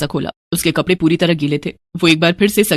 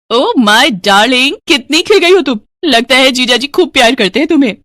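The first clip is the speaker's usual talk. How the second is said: high, loud, delighted gush; gushing greeting; 4 semitones higher, 4 dB louder than usual. Acted. Sister arriving at her married sister's home, gushing excitedly.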